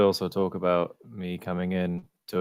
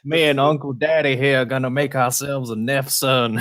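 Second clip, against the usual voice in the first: put-on southern accent; 2 semitones higher than usual. Player in character to the party, in a hammy southern accent. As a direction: lay on a folksy southern accent, son. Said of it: "your accent is great".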